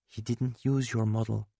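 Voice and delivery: softly, gently breaking the news; gentle. Acted. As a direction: ease the truth to him kindly. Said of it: "I say gently".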